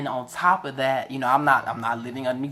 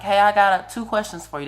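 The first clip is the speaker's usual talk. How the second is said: friendly caller; 7 semitones higher, 3 dB louder than usual. Retold or imitated. Voicing the Disney caller.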